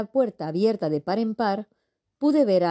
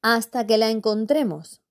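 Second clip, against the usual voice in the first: put-on child echoing; 4 semitones higher than usual. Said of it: "repitió Olivia".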